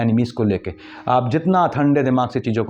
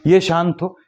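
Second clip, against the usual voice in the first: ये शांत हो said again, louder and higher; emphatic repeat; 5 semitones higher, 4 dB louder, slower than usual. Acted. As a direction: hammer the point home the second time. Repeating the wish for calm.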